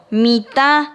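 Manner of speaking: "mitad" with the final A nasalised; nasal A. Shown as a demonstration. Teacher dictating Guarani to pupils, "mitad" with nasal A. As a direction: stress and nasalise the last vowel of "mitad". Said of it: "Con acento nasal en la A".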